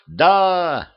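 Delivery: high, drawn-out mild yell; crowd yell. A narrator's reading. Crowd answers the king, high drawn-out yell. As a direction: yell it back as an eager crowd. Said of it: "заорала толпа".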